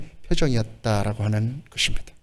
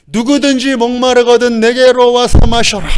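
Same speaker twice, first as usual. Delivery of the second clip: high, raised proclamation; sustained high-pitched call; 9 semitones higher, 4 dB louder than usual. Acted. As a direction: cry out an invitation to a crowd. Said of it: "막 외치셨던 거예요".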